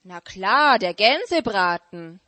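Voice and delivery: fox. Acted. Fox voiced in fable.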